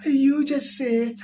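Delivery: slow, drawn-out officiant cue; mock pastor prompt. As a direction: drawl it like a pastor leading vows.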